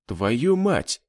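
plain reading voice

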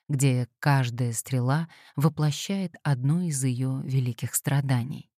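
plain reading voice

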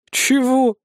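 high, drawn-out incredulous question; drawn-out what. A narrator's reading. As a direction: stretch it out in disbelief. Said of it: "протянул я". (протяжное недоумённое «чего»)

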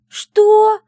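a furious startled yell. Acted. Heroine yells at her friend, very loud and high. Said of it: "заорала я на неё".

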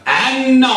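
عن said as ʿan-na, no opening la; teacher's model of عن, doubled n; initial lam dropped. Shown as a demonstration. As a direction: demonstrate عن starting straight on the ayn. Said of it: "بحذف اللام".

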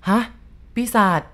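blurted out. A narrator's reading. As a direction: blurt the word back in disbelief. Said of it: "ผมโพล่งย้อนคำท่าน". (โพล่งออกมาด้วยความตกใจ)

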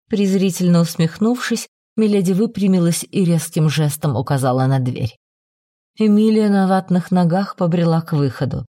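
usual speaking voice

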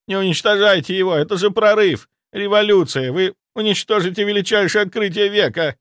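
high, loud frantic plea; frantic pleading. A narrator's reading. Zaitsev begging the necromancer to spare his discovery, frantic. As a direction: beg him to spare your breakthrough.

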